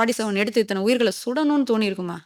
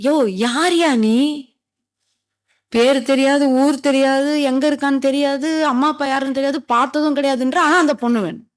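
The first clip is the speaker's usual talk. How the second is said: raised-pitch, incredulous listing; acted-out disbelieving rebuke, pitched up; exasperated scolding; 4 semitones higher than usual. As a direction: tick off each absurd point in mock exasperation. Scolding man who knows nothing.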